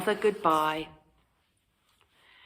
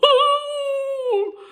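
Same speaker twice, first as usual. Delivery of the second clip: terrified howl; 5 dB louder than usual. Acted. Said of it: "With a terrified howl".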